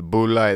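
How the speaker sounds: "Bud Light" said as "boo-light"; Boo Light pronunciation. Retold or imitated. Host quoting a friend's favorite commercial, "Bud Light" as "Boo Light". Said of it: "his favorite commercial growing up".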